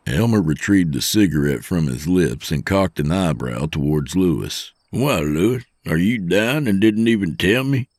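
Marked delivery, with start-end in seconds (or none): 4.9-7.9 put-on lightly teasing older trucker, pitched up; mock concern. Trucker needling his impatient poker buddy, mock concern. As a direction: feign surprise at your friend's grumbling. Elmer teasingly mocks Lewis's complaint.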